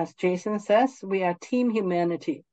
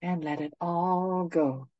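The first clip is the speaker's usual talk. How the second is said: guided meditation; 4 dB quieter than usual. Acted. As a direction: ease them gently into stillness.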